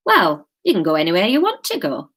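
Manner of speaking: put-on Wigan accent, matter-of-fact; easygoing line in a light Wigan accent; Graham. Graham tells Kate she can choose, Wigan accent. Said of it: "how to do a Wigan accent".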